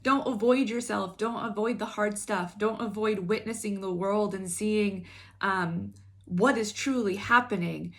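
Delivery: urging plea. Retold or imitated. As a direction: urge them not to look away.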